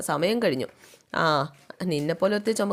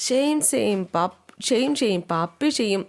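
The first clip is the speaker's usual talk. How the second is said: put-on childish singsong jeer; acted shame-shame teasing; mocking taunt; 3 semitones higher than usual. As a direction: tease with a pitched-up playground chant. Acted childish taunt of crying girl.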